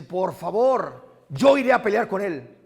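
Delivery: confident offer. Retold or imitated. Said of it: "¿Y sabe qué hace David? Dice".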